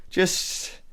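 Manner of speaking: high, flustered stammer, loud at first; acted panic, pleading as you scramble away; panicked villager. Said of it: "she's, like, scrambling to get back inside".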